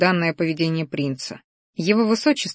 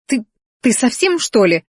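stammered, higher-pitched indignation; indignant; 5 semitones higher, 4 dB louder than usual. A narrator's reading. Girl shocked by friend's teasing, indignant. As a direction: splutter in disbelief, pitch jumping up. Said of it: "возмутилась она".

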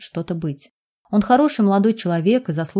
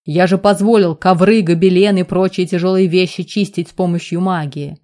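roaring; 4 dB louder than usual. Acted. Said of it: "заревел Амирьян".

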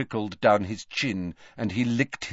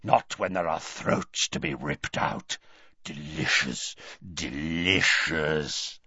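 softer slow savoring rasp; 5 semitones lower, 4 dB quieter than usual. A narrator's reading. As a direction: savor each word in a low rasp. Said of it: "rasped Greyback".

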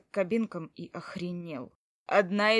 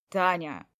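calling out; 5 dB louder, slower than usual. Acted. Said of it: "позвал снова".

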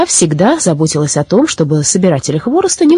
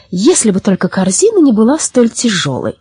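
lightly cheerful, higher pitch; 4 semitones higher than usual. Acted. Baba Yaga hinting to the forester about her basket, cheerful. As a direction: say it merrily, pitched a little up. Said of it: "она весело сказала".

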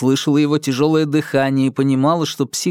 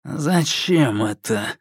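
slow suspicious question; much slower than usual. A narrator's reading. Psycho's slow suspicious reply.

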